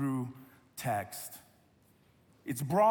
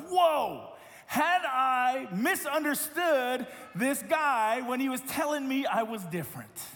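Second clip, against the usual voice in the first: higher, slowed, wondering whoa; dawning realization; 4 semitones higher, slower than usual. Retold or imitated. Pastor recalling the moment he understood, amazed. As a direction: let the realization land slowly. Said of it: "I thought to myself".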